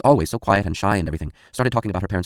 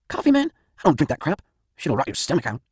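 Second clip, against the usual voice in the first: higher, put-on voice of an edgy buddy; whiny stoner friend; 8 semitones higher than usual. Gak urging his friend to head back to the city. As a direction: play Gak, spooked and itching to leave.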